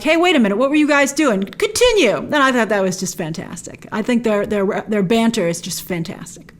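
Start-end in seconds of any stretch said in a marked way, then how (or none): 0.0-2.2 mock teasing. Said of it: "Stark's like".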